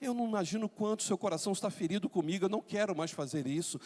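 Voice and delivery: soft, subdued plea for forgiveness; mildly tearful apology. Acted. Spouse who feels they erred begging forgiveness, subdued remorse. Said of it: "ela vai em lágrimas dizer".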